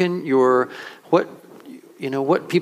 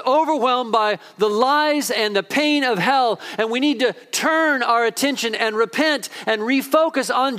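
higher-pitched, urgent sermon delivery; impassioned preaching; 4 semitones higher than usual. Real, not acted. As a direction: preach it with conviction, stressing key words. Preaches with rising intensity.

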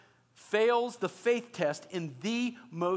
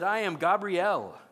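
indignant angel; 4 dB louder, slower than usual. Acted. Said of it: "how annoyed the angel is".

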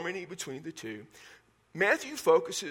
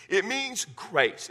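slow emphasis; 3 semitones higher, much slower than usual. Acted. Stressing the key meaning of word.

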